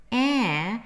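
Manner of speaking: eh as the open a of cat; central open vowel. Shown as a demonstration. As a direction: say eh as a tense, wide a sound. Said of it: "it's more kind of central".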